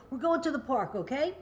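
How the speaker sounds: light parent announcement ending in a rising "okay?"; questioning okay. Retold or imitated. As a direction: let "okay?" lift into a question. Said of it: "So you say".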